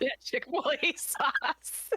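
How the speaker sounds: high, drawn-out words through real laughter; laughing. Real, not acted. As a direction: squeeze the words out while cracking up. Cracking up over the sauce joke.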